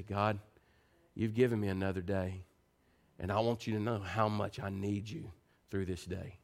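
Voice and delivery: low, soft sincere prayer; hushed, heartfelt talk with God; morning prayer. Acted.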